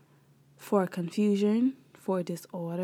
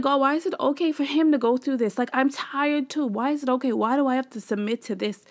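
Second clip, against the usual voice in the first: higher, exasperated retold plea; over it; 5 semitones higher than usual. Wife asking God why she must submit, exasperated. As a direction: replay a frustrated complaint to God, easing off at the end. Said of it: "Like, I was over".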